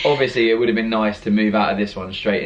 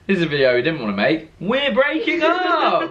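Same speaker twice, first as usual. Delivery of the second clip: mock sad announcement; 7 semitones higher than usual. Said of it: "It sounds like you're literally going".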